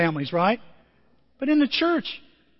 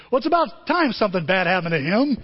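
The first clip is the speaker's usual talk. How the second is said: laughing brother jibe; 3 dB louder than usual. Retold or imitated. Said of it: "Nathan says something like this".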